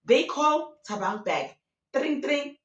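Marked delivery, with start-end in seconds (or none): 1.9-2.6 higher-pitched telephone imitation; mock phone ring. They call the cheater back, imitated phone ring. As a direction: chirp out a pretend ringtone.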